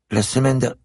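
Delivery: put-on a shy child of nine, close to tears; little girl voice. A narrator's reading. Little girl at the door tells the policeman she is locked out, high and tearful.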